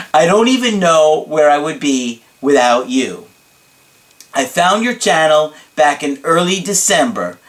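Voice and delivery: lightly hammed-up emphatic gratitude; dramatic client impression. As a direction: pour out theatrical thanks to your coach. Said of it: "this is hard to keep up in his voice".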